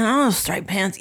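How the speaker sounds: lightly imitated jazz trumpeter; a hint of impersonation in a denial. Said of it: "They both kinda talk like this".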